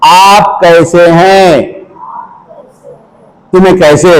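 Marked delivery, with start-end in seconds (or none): 0.1-1.6 slow demo. Shown as a demonstration. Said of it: "बोलो".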